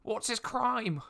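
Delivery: high, loud call from the crowd; curious onlooker calling out loud; shout from the crowd. Acted. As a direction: yell it from the back of the crowd. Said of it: "someone from the crowd, um, shouts".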